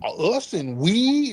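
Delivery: slow, dragged-out mocking of the caller; mock quote. Host ridicules the caller's "us and we", slow mock voice. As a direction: drawl her "we and us" slowly to ridicule it. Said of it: "slide up under here talking about".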